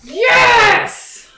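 loud, high yell of delight; excited cheer. Real, not acted. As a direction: cheer it out at full voice. Delighted at getting the spell.

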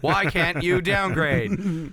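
slow robot voice; slow monotone synthesized speech. Acted. Robot voice bit.

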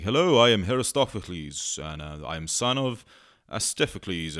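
lightly put-on English accent of an ancient Greek. Ancient Greek introduces himself to a stranger, mock English accent. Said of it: "generic English accents".

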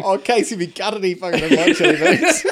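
mock begging through laughter; laughing mockery. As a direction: laugh while mimicking a beggar. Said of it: "mocking the family's begging".

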